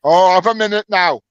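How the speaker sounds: slow Welsh accent; northern Welsh accent. Real, not acted. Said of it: "your northern Welsh accent".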